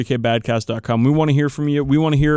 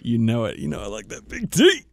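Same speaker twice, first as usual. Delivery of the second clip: mock brag. Mock boast about D batteries.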